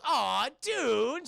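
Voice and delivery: high, swooping cooing "aw"; touched friend. Retold or imitated. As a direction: coo it like a touched pal. Voicing a friend in a story.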